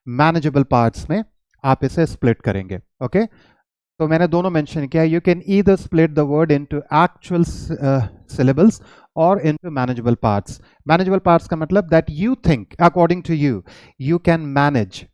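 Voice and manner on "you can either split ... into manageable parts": slow, deliberate dictation of a note; reading notes aloud. Shown as a demonstration. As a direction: read it out word by word for students. Rereads the same note. (धीरे-धीरे note पढ़कर सुनाना)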